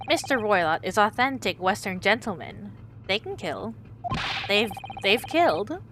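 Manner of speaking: proud Russian sailor introducing himself. Acted.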